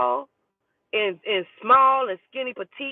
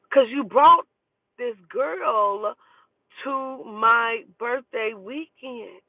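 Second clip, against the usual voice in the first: indignant retort; 3 semitones higher, much slower than usual. Retold or imitated. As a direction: hammer the accusation home, slowing down. Telling boyfriend off in retort.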